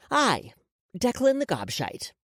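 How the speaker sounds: feed the words to be repeated; dictating. A narrator's reading. Woman gives the boy his apology, dictating. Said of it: "So repeat after me".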